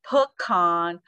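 pecan as puh-KAHN; pecan, first syllable swallowed; pecan, third way. Shown as a demonstration. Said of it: "So you can say".

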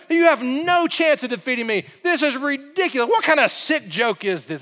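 a touch of contempt; scornful taunt. Retold or imitated. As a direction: laugh off the challenger. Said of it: "That's what Goliath is doing".

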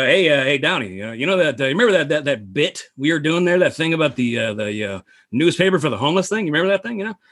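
halting, up-and-down comic impression; lightly imitated rambling comedian; Norm Macdonald. Comedian bringing up an old bit in the office, lightly imitated. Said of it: "Norm Macdonald comes into Downey's office".

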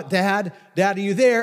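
put-on child shouting into another room; calling for Dad. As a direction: call out to find your dad. Child calling through house for dad.

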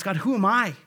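humble prayer. Shown as a demonstration. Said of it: "then what's my response?".

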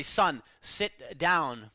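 slow, firm father's command; a stern dad slowly telling his son to sit. Retold or imitated. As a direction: lay down the law, word by word. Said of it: "said more sternly".

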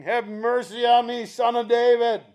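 half-shouted plea; acted shout. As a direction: imitate a woman shouting for mercy. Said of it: "the woman keeps shouting".

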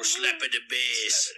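low, slow goofy catchphrase. Pretend. Host repeating his bass-player riff, goofy low voice. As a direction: drop it low and stretch it out.

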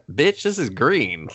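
a lightly voiced villain, drawn out and scornful; mock Shang Tsung. Host voicing Shang Tsung catching the poisoner, mock scorn. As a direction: sneer it slowly at the cheat.

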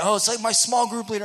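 high, loud, booming friendly dude; loudest guy ever. Retold or imitated. Kevin Earnest inviting the newcomer, booming and friendly. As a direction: greet a stranger like a long-lost buddy at full volume. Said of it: "the loudest human being I've ever known".

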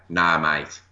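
retold line in a light Australian accent. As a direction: imitate an Australian mate, lightly Australian. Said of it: "obviously in an Australian accent".

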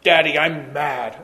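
lightly imitated pouting toddler, slowed down; a slow, mock-grumpy little kid; mad toddler. Dad imitating his frowning toddler mad at him, mild mock pout. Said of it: "big frown on their face".

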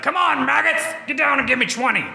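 barking drill sergeant yell, high. Retold or imitated. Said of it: "The classic drill sergeant".

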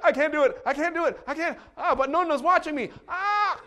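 high, loud hammed-up panic; mock dread. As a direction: plead with yourself, overplayed. Retold dread eating mussels.

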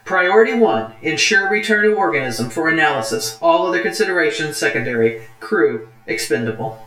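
level, even computer voice reading orders; calm ship computer. Acted. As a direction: read it like a ship's onboard computer. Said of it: "see if I can do a computer voice".

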